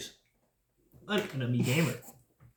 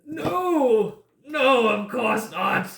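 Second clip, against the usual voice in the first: much higher, loud and frantic; panicked denial; 7 semitones higher, 6 dB louder, much slower than usual. Acted. Wounded man begged about dying, panicked shout. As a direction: blurt it out in fear. NPC answers death question.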